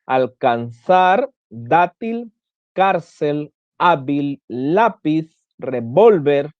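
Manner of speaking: dátil, cárcel, hábil, lápiz, revólver, each leaning on the second-last syllable; measured list through mártir, Caracas, mano, Carmen, next-to-last syllables drawn out; stress on penultimate syllable. Shown as a demonstration. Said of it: "en la penúltima sílaba".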